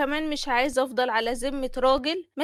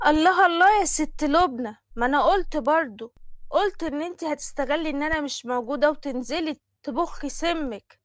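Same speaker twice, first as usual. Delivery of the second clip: snide sister-in-law; 2 semitones higher, 4 dB louder than usual. Acted. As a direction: catch her out with a sneer. Narrator voices Fatma. (سلفة شامتة، بصوت أعلى وأعلى)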